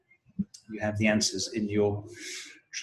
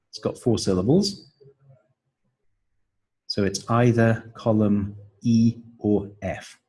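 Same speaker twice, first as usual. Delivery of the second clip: ordinary talk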